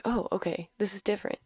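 hushed, taken-aback murmur; a soft surprised aside; mild surprise. Retold or imitated. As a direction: quietly caught off guard. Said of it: "I was like".

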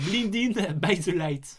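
slow, careful English accent; drawn-out English pronunciation; English title. Shown as a demonstration. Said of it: "due à mon accent, euh, anglais".

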